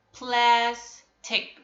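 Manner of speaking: plastic split in two, plas, then tic; broken into syllables. Shown as a demonstration. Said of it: "We can break plastic".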